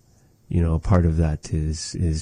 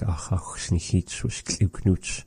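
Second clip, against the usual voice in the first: softer, slower model line; soft model phrase; 5 dB quieter than usual. Shown as a demonstration. Teacher softly models the follow-up phrase. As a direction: say it gently and slowly. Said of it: "you could follow up by saying".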